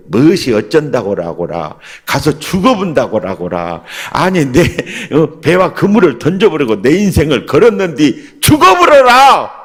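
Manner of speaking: loud, high Jeolla dialect protest, hammed up; Jeolla-dialect Peter. Preacher voicing Peter protesting to Jesus, in loud Jeolla dialect. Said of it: "베드로는 전라도 스타일이에요".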